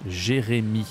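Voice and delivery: "Jérémy" with a clean French i at the end; name said the French way. Shown as a demonstration. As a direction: end "Jérémy" on a short bright i. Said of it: "Ça se dit I".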